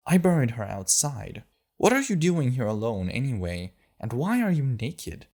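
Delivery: put-on girl deflecting Astrid's questions; girl quick answer. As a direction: snap back a lie, then question her. Girl's voice.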